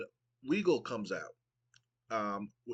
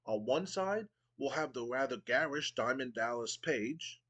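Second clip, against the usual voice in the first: pompous Regal. Acted. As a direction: sneer down at the crowd with mock refinement. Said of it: "and Regal goes".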